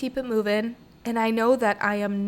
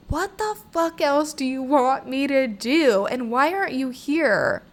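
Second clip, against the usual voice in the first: slow, higher exasperated demand; angry at God; 5 semitones higher, slower than usual. Retold or imitated. Venting to God in anger, exasperated demand. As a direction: let the frustration out at God, a bit higher. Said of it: "I just got really fucking angry".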